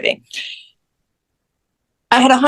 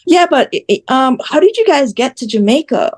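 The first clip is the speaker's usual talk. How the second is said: higher-pitched mimicked questioning; imitated nosy questioner; 5 semitones higher than usual. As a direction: mimic someone pressing with yet another question.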